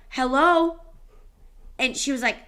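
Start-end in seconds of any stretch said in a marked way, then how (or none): 0.1-0.8 high, loud sing-song greeting; bright, friendly hello to a shy lady; cheery hello. Retold or imitated. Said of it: "I was like".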